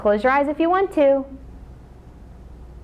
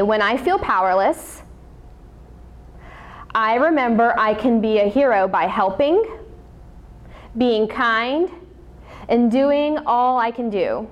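recited affirmation. Shown as a demonstration. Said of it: "say with me".

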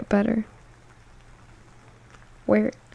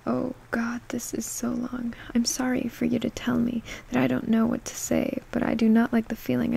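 unvoiced soft whisper; flustered whisper; 3 dB quieter than usual. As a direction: hush it, no voice at all. Whispered comment reading.

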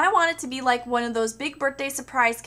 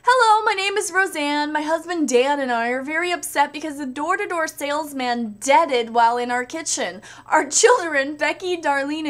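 lightly voiced asker; 3 dB louder than usual. Reading Roseanne question.

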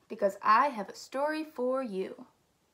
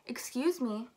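mild, courteous interjection; understated, well-mannered request; polite. Acted. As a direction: politely ask for attention. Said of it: "Idaho said politely".

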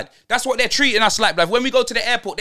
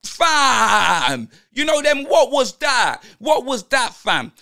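disbelieving outburst. Retold or imitated. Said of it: "I'm thinking".

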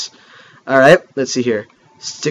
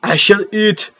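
grandiose beast vow; 3 semitones higher than usual. Acted. Gamer voicing his creature's vow to rule, grandiose. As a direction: vow it like a hammy hero. Creature vows to become king.

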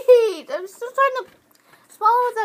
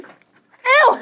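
disgusted; 4 semitones higher, 3 dB louder than usual. Real, not acted. Tasting mint bean.

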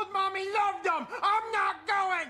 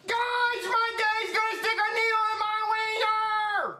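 shout; 5 semitones higher than usual. Acted. Child shouting to the room.

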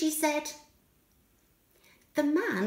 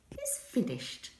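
soft whispered close; 8 dB quieter than usual. A narrator's reading. Narrator closing the story for children, whispered. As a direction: whisper the ending.

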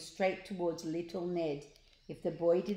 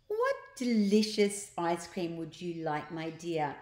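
nice voice. Acted. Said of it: "in her nice voice".

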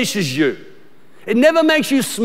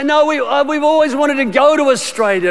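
imitating naive Americans; 5 semitones higher than usual. Pastor mocks Americans who confuse Australia's location, higher gushing. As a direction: gush cluelessly. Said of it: "And they'll say".

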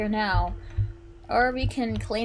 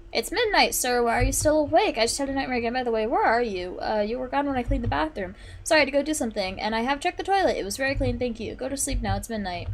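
voicing Greg; faster than usual. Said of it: "Greg's gonna be like".

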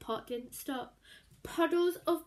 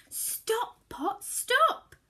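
higher and louder calling; called spell; 9 semitones higher, 8 dB louder, much slower than usual. A narrator's reading. Woman commands the magic pot to stop, calling out.

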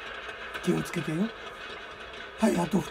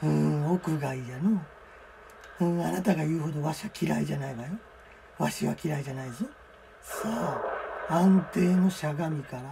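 put-on creaky wise old man; 3 semitones lower, 4 dB quieter than usual. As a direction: speak like an old sage.

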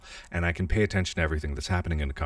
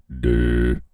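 mock dumb "duh"; 5 semitones lower, 7 dB louder than usual. Mocking herself after mic mishap.

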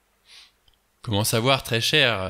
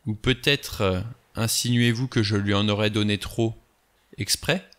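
biting tone. Acted. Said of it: "d'un ton mordant".

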